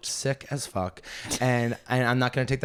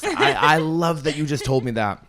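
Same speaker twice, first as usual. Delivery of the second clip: laughing; 5 semitones higher, 6 dB louder than usual. Retold or imitated. Laughing gratitude in retold scene.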